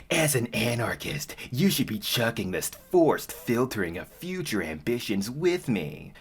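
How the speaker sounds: put-on mock-serious line read; stilted character voice. Reading Mandy's panel aloud, mock-stilted. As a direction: recite it as clunky comic dialogue. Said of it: "where Mandy says".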